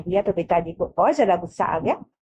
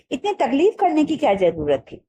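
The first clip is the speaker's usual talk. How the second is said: laughing mother; 6 semitones higher than usual. Acted. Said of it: "माँ ने हंसकर कहा".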